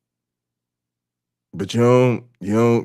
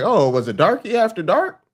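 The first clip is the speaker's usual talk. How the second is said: high, fast mocking sheriff voice; 11 semitones higher, faster than usual. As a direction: ham up a smug small-town lawman. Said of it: "They'll be like".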